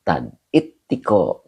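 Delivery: Ittiko said slowly, the t held long; slow, deliberate Ittiko. Shown as a demonstration. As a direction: carefully repeat Ittiko with its tashdid. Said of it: "Ini bacanya Ittiko, pakai tasdid".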